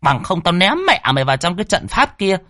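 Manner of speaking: high, harsh bossy threat; high scolding sorceress threatening. Acted. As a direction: menace the kneeling man. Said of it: "dọa nạt".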